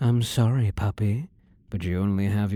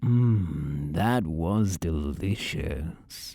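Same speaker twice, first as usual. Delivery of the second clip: savouring purr; 4 semitones lower, much slower than usual. Acted. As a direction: linger over it, pleased. Captor savours a kiss.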